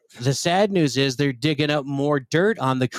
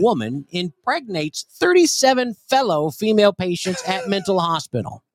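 enunciated. Shown as a demonstration. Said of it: "Say that clearly. Enunciate, please".

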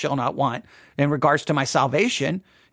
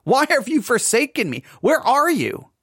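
psalmist crying out, higher pitched; raised, pleading call to God; mild mock scream; 6 semitones higher than usual. Psalmist demanding answers from God, mild mock scream. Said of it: "would scream out".

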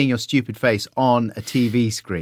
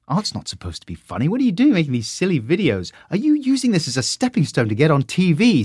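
tutor's scolding; 5 semitones higher than usual. Retold or imitated. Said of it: "Said one tutor".

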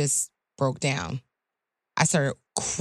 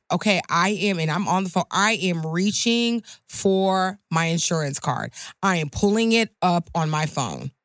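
deliberate, pointed announcing. Retold or imitated. Attorney telling the officer each move at a traffic stop, deliberate announcing. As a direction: announce every move word by word, carefully. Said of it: "why are you saying it like that".

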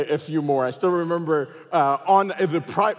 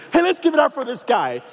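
loud public announcement; 8 semitones higher, 4 dB louder than usual. Retold or imitated. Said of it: "loud enough for the entire flight to hear".

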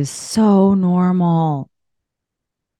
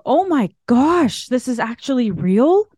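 retold excitement; 5 semitones higher than usual. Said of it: "excitement of".

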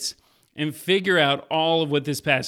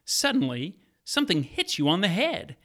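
story narration. Acted. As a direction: draw the listener into the scene. Retells Bible story over music.

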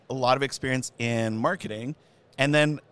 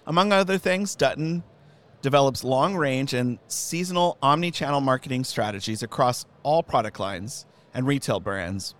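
formal announcer intro. Acted. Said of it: "announce me that way every time I come".

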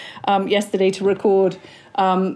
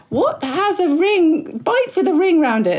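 mock search query; 8 semitones higher than usual. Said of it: "I literally Googled".

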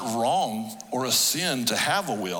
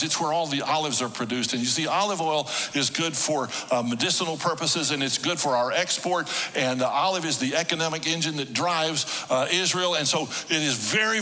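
tour guide; 4 semitones higher than usual. Retold or imitated. Tour guide addresses the group.

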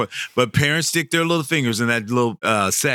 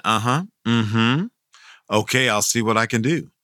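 faking it. Retold or imitated. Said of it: "never heard of it".

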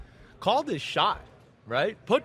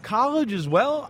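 surprised; 7 semitones higher than usual. Real, not acted. Host surprised by college QB.

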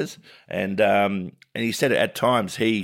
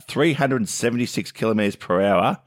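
amazed; 3 semitones higher than usual. Real, not acted. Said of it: "That's ridiculous".

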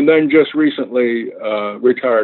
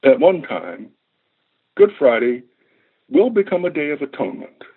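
poem reading. Acted. Reads his poem aloud.

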